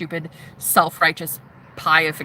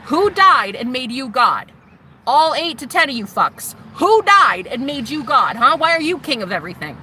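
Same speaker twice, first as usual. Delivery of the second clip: defiant heckling; 3 semitones higher than usual. Retold or imitated. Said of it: "doing just this".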